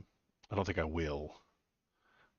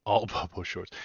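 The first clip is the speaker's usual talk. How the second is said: laughing; 5 dB louder than usual. Real, not acted. Laughing at the idea.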